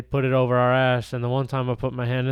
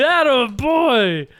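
mock dad voice; 8 semitones higher, much slower than usual. Friend mocking the dad's approval.

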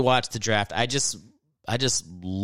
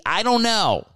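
frustrated; 6 semitones higher than usual. Real, not acted. Frustrated rant about spelling.

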